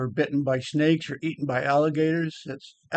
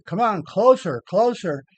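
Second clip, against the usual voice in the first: mild mock yell, pitched up; retold yell; 4 semitones higher than usual. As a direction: call it out like urging a friend closer. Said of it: "I was yelling at Skip".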